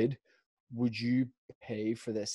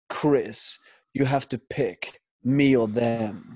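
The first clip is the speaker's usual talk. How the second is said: overly dramatic; 4 dB louder, much slower than usual. Retold or imitated. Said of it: "so overly dramatic".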